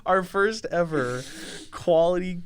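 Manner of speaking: cracking up in disbelief; laughing. Real, not acted. Laughing at friend roasting.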